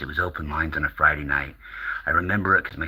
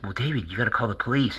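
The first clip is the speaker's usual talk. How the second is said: higher mock radio host; George Norrie; 5 semitones higher than usual. Host advising a scared caller, lightly mocked high voice. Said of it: "George is like".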